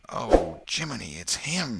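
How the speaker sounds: put-on sudden loud boyish gasp of recognition; frightened boys crying out; exclaiming. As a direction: blurt it out in shock. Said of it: "exclaimed both boys in a breath".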